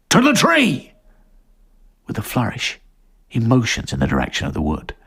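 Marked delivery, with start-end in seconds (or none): 0.1-0.9 higher, louder ringing decree; proclaiming chief. Acted. Chief sentencing the strangers, a ringing call. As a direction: announce it to the crowd.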